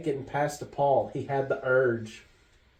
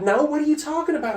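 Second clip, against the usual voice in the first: fast, much higher mock mom voice; imitating Mom; 4 dB louder, faster than usual. Son mimicking his mom denying it. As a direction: brush it off as his mother. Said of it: "she's like".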